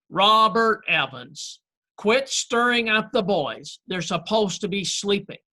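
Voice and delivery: a mother's mild mock reprimand; mom's scolding call. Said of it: "here comes Mom's voice".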